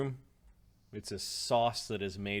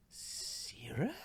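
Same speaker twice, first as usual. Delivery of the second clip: stunned disbelief; 10 dB quieter than usual. Acted. Shocked recognition of the intruder.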